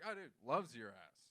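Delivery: lightly voiced casual bro; laid-back bro talk. Shown as a demonstration. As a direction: toss it off like a dude to his buddy. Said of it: "very bro-y, very casual".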